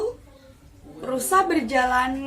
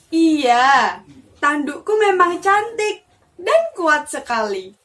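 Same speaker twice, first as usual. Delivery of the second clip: boastful; 4 dB louder than usual. Acted. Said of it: "jawab rusa dengan sombongnya".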